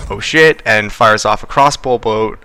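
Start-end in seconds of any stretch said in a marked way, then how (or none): 0.1-0.6 startled exclamation. Acted.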